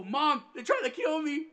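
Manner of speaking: loud, high, slow mock-desperate wail; retold crying. Son pleading with mom by phone, hammed-up desperation. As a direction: imitate a kid crying for rescue. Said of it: "I'm fucking crying shit".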